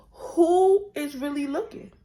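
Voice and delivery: loud, high excited exclamation. Real, not acted. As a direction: belt it out, thrilled. Repeats phrase, much louder and higher.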